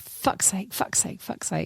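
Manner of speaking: hushed, whispered mutter under the breath. Retelling standing there frustrated watching others: muttering under breath. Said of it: "under my breath".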